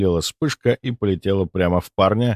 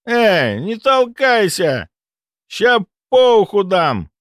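put-on slow, slurred drunken threat; threaten, words slurring drunk; 12 semitones higher, 4 dB louder, slower than usual. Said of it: "Заплетающимся голосом пригрозил".

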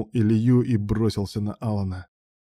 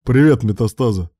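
blurted greeting; 7 dB louder than usual. A narrator's reading. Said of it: "ляпнул".

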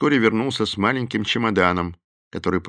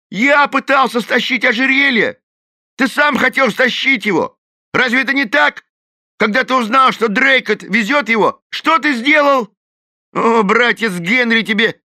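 loud, very high angry yell; Shaky Phil yelling back at Thorn; furious retort; 7 dB louder than usual. A narrator's reading. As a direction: throw it back in his face.

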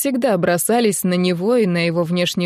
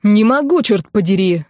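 shouting harder; 4 dB louder than usual. Acted. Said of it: "закричал вдруг и Матвей".

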